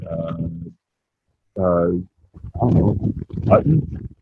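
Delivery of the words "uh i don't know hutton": muffled. Real, not acted. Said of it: "you're kind of muffled now".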